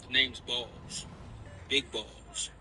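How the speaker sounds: slow cocky tough guy; drawn-out swagger intro. Acted. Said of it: "What's up, princess?".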